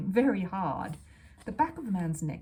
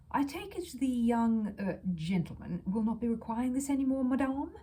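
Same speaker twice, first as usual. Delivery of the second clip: a hint of a disdainful salesman, a bit higher; haughty salesman; 5 semitones higher than usual.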